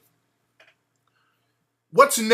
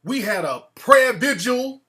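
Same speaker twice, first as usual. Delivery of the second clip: imitating her; 4 semitones higher, 5 dB louder, slower than usual. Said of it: "she said".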